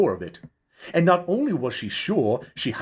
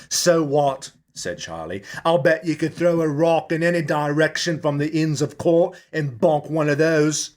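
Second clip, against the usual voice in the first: higher, louder dismissive barman; scoffing Charlie; 5 semitones higher, 3 dB louder than usual. Acted. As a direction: brush it off with mild scorn.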